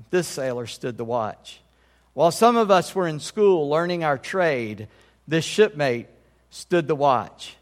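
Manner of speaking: measured, solemn poem reading with weighted pauses; poem recitation. Acted. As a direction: recite it as at a Navy retirement ceremony. Reads retirement poem aloud.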